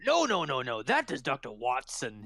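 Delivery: correcting constable. Acted. Constable correcting Amnon about who Watson is, fussy insistence.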